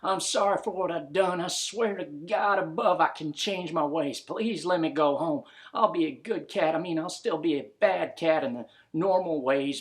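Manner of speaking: begging for mercy, hollering it out; hollering plea. Acted. Drunk cat hollering to the ghost to let him go home. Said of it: "meowing and hollering and screaming".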